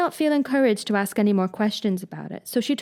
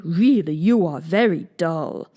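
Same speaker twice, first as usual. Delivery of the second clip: louder, a touch cross; mildly annoyed; 3 semitones lower, 3 dB louder, slower than usual. A narrator's reading. Mock Turtle scolding Alice, mildly cross. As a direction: scold her a little for being slow. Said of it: "said the Mock Turtle angrily".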